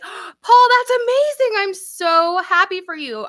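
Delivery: high, loud gush of delight; thrilled. Real, not acted. Congratulating a viewer on their first Mardi Gras trip, thrilled. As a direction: gasp and gush with happy excitement.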